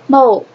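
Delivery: "Mo" repeated as one separate syllable; pronunciation demo. Shown as a demonstration. Teacher repeating the first syllable for the class, demonstrating "Mo". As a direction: model "Mo" on its own for learners. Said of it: "pronunciación de esto sería".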